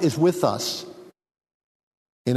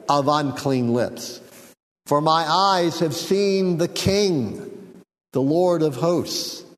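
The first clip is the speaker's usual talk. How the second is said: scripture reading; 2 semitones higher than usual. Acted. Preacher reading Isaiah's cry to his congregation, solemn. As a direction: read it like a man undone before God. Reads Isaiah's lament aloud.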